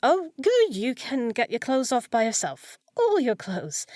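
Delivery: high, loud flustered rush; loud, flustered over-brightness. Acted. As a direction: cover embarrassment with brisk cheer. Maid flustered by undressing.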